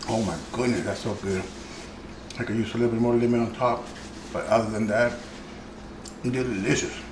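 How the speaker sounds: talking with food in mouth; mouth full. Real, not acted. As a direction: speak around a mouthful of food. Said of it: "talking with my mouth full".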